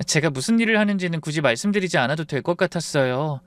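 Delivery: calm reply. Acted. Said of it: "차분하게 입을 열었습니다".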